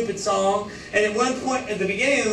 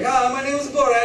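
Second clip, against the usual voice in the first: imitating a comic film foreigner, higher pitched; higher-voiced movie character impression; quick mock introduction in a higher voice; Borat; 5 semitones higher than usual. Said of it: "It's like".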